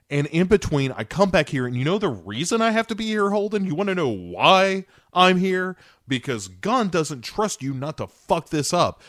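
imitating Bill furiously laying into Holden; angry rant. Acted quarrel, Bill's rant.

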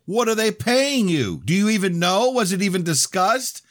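high, loud, rapid-fire accusing questions; yelled challenge. A narrator's reading. Danielle challenging him about his pay, yelling. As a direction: grill them at a near yell.

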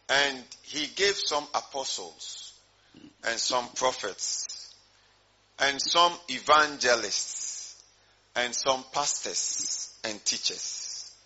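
slow, measured verse reading; deliberate pulpit Bible reading; scripture reading. Real, not acted. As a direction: read each phrase out slowly, pausing between. Reads a Bible verse aloud.

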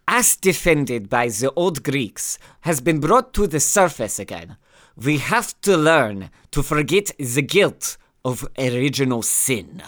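lightly put-on German accent. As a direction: quote him in a mock German accent. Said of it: "your German accent became a bit Scottish there".

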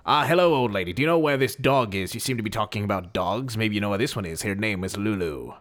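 a lightly voiced noir detective; hint of a hardboiled gumshoe, barely changed; 1940s detective. Player greeting the old woman as a lightly voiced detective. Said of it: "Here I am now in character".

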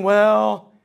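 reluctant, trailing into a whisper; mock a stingy giver muttering; grudging giver. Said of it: "not saying".

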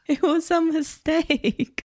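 high, slow whiny plea; mock pleading debtor. Pretending to plead with Sallie Mae over ten cents, high whiny voice. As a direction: beg like a caught debtor.

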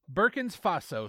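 "Burkina" said as "Burkins", ending in an s; mispronounced country name. Real, not acted. Reader stumbling over scam email's country, says "Burkina" as "Burkins". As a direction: misread "Burkina" as "Burkins" before "Faso". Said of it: "That was me".

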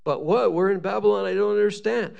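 baffled exile's protest; mock bewilderment. Exiles react to God's letter, bewildered. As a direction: object in puzzled disbelief.

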